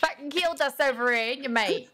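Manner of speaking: lightly put-on London-Aussie telling-off; London-Aussie accent. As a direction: grumble at a mate in mock London-Aussie. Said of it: "trying to do a London accent. As well as an Aussie".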